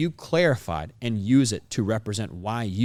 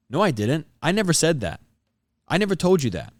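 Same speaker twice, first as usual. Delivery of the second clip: defensive tone; 4 semitones higher than usual. Shown as a demonstration. Showing how people sound denying what they said, defensive tone. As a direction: deny it like you're being accused. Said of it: "The best example of a defensive tone".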